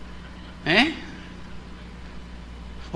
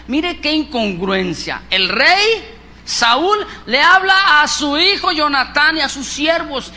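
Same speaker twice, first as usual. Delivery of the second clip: loud, high preaching build; 5 semitones higher, 7 dB louder, slower than usual. Acted. Preacher stressing the king's betrayal to the congregation, loud. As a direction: drive the point home to the pews.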